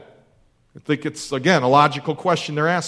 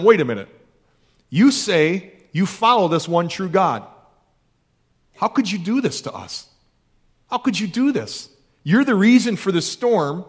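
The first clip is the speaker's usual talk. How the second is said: lightly voiced sailors, hurt and accusing; 3 semitones higher than usual. Sailors confront Jonah over the storm, mildly voiced accusation. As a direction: ask how he could do this, stung.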